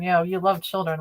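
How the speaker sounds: dry sarcasm on "love", falling tune; knowing, sarcastic retort; sarcastic reply. Real, not acted. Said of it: "but not in the right way".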